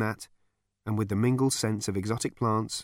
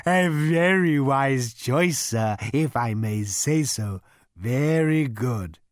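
high, slow, courteous cow; polite cow voice; 4 semitones higher, 4 dB louder, much slower than usual. A narrator's reading. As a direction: offer yourself like a cow waiter. The animal speaks.

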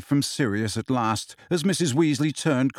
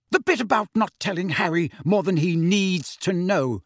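higher voice, weighting "needs to know"; pointed stress on "needs to know"; heavy emphasis on last words; 5 semitones higher than usual. A narrator's reading. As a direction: lean heavily on "needs to know". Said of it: "placing a heavy emphasis on the last three words".

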